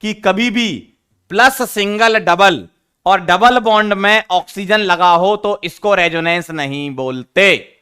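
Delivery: slowed right down so every word lands; a teacher slowing down to drive a rule home; slow, deliberate teaching. Shown as a demonstration. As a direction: spell out the rule word by word for the class. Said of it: "ध्यान से सुनो".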